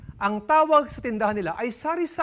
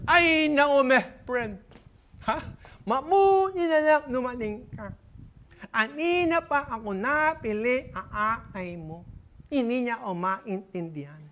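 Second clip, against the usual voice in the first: exasperated friend; 3 semitones higher than usual. Acted. Friend complains of waiting.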